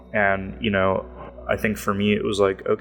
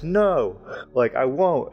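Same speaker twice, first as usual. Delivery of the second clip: higher-pitched, mock stubborn refusal; angry lawyer refusing; 6 semitones higher, slower than usual. Angry lawyer retold refusing his seminar leader, mock indignant. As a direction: mildly imitate an angry man digging in, pitch up. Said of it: "like, angry".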